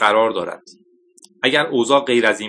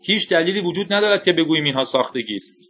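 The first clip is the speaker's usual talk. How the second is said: higher-pitched, restrained shout; shouted objection; 6 semitones higher than usual. A narrator's reading. Official disputes the fake-missile claim, in a restrained shout. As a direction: object heatedly without full volume. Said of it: "مکیتریک فریاد زد".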